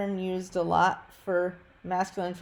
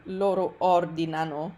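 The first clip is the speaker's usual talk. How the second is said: loro ordinano with the stress on the first syllable, OR-dinano; word stress. Shown as a demonstration. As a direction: stress ordinano right at its start. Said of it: "an even funnier example of word stress".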